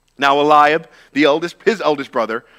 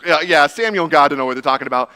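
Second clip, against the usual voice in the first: loud, dismissive sneer; mocking brother; 2 semitones higher, 6 dB louder, faster than usual. Eliab mocks David and dismisses God's choice, sneering. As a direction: brush off God and Samuel with scorn. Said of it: "And Eliab goes".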